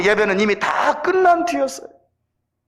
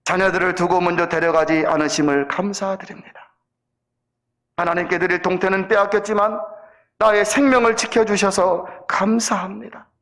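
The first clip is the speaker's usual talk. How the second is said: lightly acted prayer of thanks, starting low; a hint of humble, measured praying; 3 semitones lower than usual. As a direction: pause between phrases as if praying. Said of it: "다음과 같이 기도를 드렸습니다".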